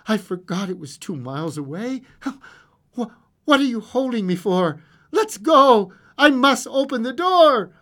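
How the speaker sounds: urgency building to loud high demands; desperate urging. A narrator's reading. Old woman held back from the door, desperate urging. Mother struggles to get free.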